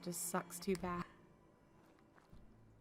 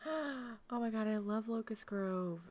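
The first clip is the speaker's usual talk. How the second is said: delighted gasp; 3 semitones higher, slower than usual. Real, not acted. Delighted by viewer's hometown.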